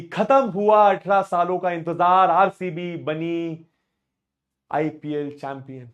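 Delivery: slow, drawn-out commentator announcement; commentator call. Retold or imitated. Teacher imitating Jatin Sapru calling the title win. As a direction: call it like a cricket commentator at the final. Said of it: "कि जतिन सप्रू बोले".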